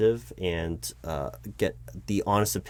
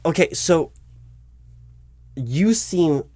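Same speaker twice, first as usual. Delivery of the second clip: startled recognition; 8 semitones higher, 6 dB louder, slower than usual. Acted. Interviewer startled recognizing candidate.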